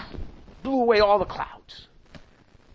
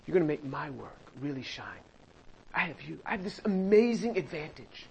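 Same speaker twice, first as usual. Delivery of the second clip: softer, hushed prayer of trust; quiet confident prayer; 4 semitones lower, 10 dB quieter than usual. Pretend. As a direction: murmur it as a private prayer to God. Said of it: "And I'm just gonna say".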